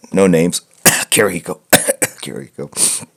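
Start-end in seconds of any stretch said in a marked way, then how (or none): 0.8-1.6 "Kirihiko" blurted inside a cough; fake cough name. Joking to chat after banning spoilers, coughed-out name. 1.7-3.1 "Kirihiko" whispered slowly under a cough; whispered cough name. Pretend. Teasing chat a second time, slow whispered cough.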